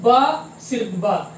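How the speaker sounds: ब drawn out slowly, then सिर्फ ब; teacher slowly stressing ब; slow demo. Shown as a demonstration. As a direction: spell it out slowly for the class. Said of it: "इसको क्या पढ़ते हैं?".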